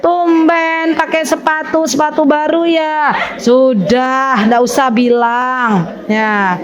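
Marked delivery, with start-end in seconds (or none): 0.0-3.1 slow, stretched "tumben" jab; mock needling surprise; nosy remark. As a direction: imitate someone pointedly commenting on a friend. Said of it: "kita bilang".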